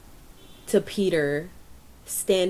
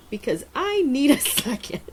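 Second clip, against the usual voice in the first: laughing imitation; 8 semitones higher than usual. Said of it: "He's like".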